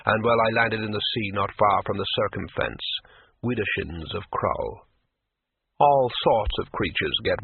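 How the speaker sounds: lightly voiced gentle troll remembering. Troll's long tale.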